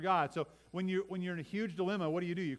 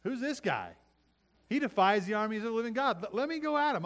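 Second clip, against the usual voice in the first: higher, louder brash challenge; bold young David; 6 semitones higher, 5 dB louder than usual. Retold or imitated. David defying Goliath, high and loud. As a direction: dare the giant, fearless. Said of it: "David says".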